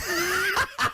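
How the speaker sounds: high breathy cackle; high laugh. Real, not acted. Laughing at geek joke.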